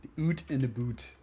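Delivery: echoing "oot in a boot" Canadian-style; playful Canadian accent. Retold or imitated. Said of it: "the one with the Canadian accent".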